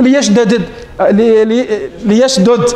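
ليشدد with both dals said apart, l-yashdud, stammered restart; unmerged ليشدد. Shown as a demonstration. Teacher shows students the Hijazi form, careful slow demo. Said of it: "قولوا".

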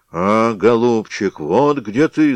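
loud slow roar; hammed-up loud bear roar. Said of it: "заревел медведь".

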